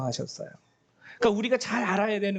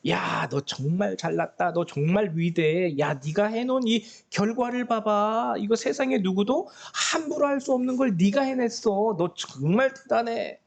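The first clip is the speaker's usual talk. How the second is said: flattering tempter; 2 semitones higher than usual. Retold or imitated. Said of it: "사단이 옆에서 속삭이는 거예요".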